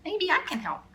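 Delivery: high, strong call over the storm; a brave child calling out; shouted over wind. A narrator's reading. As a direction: raise the voice above the wind. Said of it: "I shouted over the wind".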